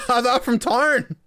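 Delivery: slow, high mock British villager; mock British accent. Gamer imitating the game's British greeting, in a put-on British accent. Repeats NPC line.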